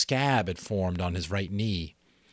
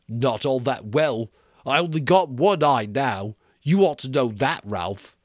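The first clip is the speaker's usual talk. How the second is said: lightly voiced boy, a bit higher; Piggy's voice; 5 semitones higher, 7 dB louder than usual. Piggy answering Ralph, a lightly voiced boy.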